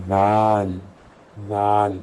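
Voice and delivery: دال said gently with a soft d; soft daal. Shown as a demonstration. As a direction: place دال softly, no harsh z. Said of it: "دال کو بہت نرمی سے ادا کریے گا". (نرمی سے دال، زال نہیں)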